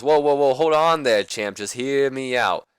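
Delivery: a hint of the Nature Boy, persuading; Ric Flair voice. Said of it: "And then Flair goes".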